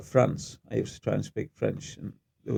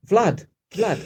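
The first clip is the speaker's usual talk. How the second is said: raised, higher voice calling someone back; retold calling out; 10 semitones higher, 7 dB louder than usual. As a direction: re-enact hailing him as he leaves. Calling after porter who walked off.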